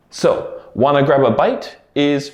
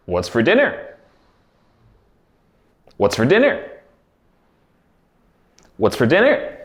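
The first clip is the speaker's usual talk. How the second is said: native speed. Shown as a demonstration. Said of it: "I'm going to say the words three times".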